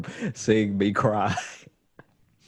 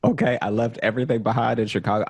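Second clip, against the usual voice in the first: desperate pleading; 5 semitones higher, 3 dB louder than usual. Retold or imitated. Begging the bank on the phone.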